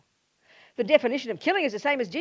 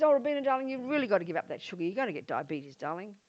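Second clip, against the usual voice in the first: gentle doctor; faster than usual. Acted. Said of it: "She says".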